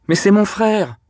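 high, loud wounded outburst; pained angry cry. A narrator's reading. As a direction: cry it out in hurt fury. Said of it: "cria-t-elle avec la colère douloureuse". (cri de colère douloureuse, aigu et fort)

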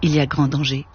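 measured, even literary reading voice; story narration. A narrator's reading. Author reading his novel to the audience, unhurried and even. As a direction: read the novel's opening to an audience. Reads novel aloud with music.

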